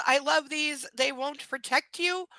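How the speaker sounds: the creepy line reread in disbelief; mock creepy reading. Shown as a demonstration. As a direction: repeat it aghast at how creepy it is.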